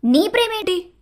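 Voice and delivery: high, stunned question; shocked. A narrator's reading. Ritika to Vasanth, stunned by his confession. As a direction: blurt it out in shock. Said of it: "చాలా shock అయ్యి అడిగింది".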